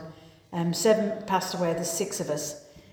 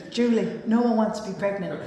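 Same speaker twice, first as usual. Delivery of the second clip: lightly voiced deadpan mum; dry mother. Mother correcting Julie on the escalator, deadpan. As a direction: put the daughter straight, matter-of-fact.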